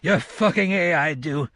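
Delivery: mild weeping. A narrator's reading. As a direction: blurt it through tears. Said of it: "He began to weep".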